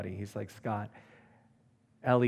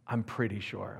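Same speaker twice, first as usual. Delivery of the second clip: low, soft, hesitant reply; not so confident; 4 semitones lower, 5 dB quieter than usual. Retold or imitated. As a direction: say it quietly, without conviction. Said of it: "you don't sound so confident".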